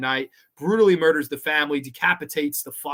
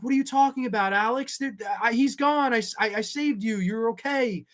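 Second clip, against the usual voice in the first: imitating the killer; 7 semitones higher than usual. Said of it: "She's like".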